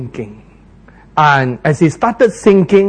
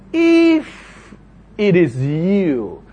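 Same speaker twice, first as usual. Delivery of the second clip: doubtful question; much slower than usual. Acted. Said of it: "They will say".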